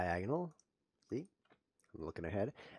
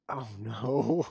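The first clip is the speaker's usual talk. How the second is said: oh no; 2 semitones higher, 5 dB louder than usual. Real, not acted. Spots bad move mid-sentence.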